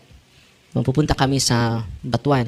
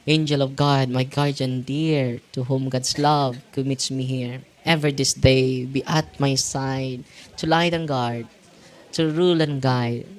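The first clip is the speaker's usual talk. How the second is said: prayer recitation; 3 dB quieter, slower than usual. Acted. Reciting the guardian angel prayer.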